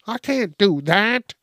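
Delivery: high, shocked protest; high pretend shocked patient; shocked Miss Jenkins. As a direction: pretend disbelief at losing the lung. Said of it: "She's like".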